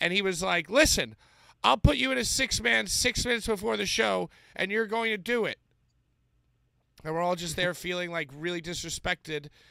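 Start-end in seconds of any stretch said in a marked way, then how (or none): 0.7-5.6 loud, angry yell, acted. Speaker recalls being yelled at before a show, acting out a man yelling. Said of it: "he's like yelling at us".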